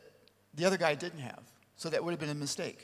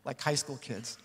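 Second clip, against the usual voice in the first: talking through a real laugh; laughing while retelling the studio moment. Real, not acted. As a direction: chuckle as you remember it. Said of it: "I start laughing".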